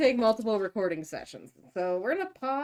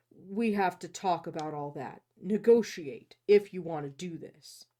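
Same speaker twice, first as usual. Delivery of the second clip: low, measured dialogue reading; story narration; 3 semitones lower than usual. A narrator's reading. Host reading the hero negotiating with her, story narration. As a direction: read the hero's lines low and evenly. Reads the novel aloud.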